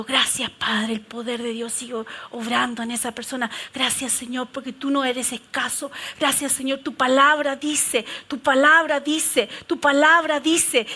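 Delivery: rezo más bajo y suave, repitiendo despacio; oración suave. Shown as a demonstration. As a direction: ora en voz baja con fe. Models a quiet prayer. (oración íntima en voz baja)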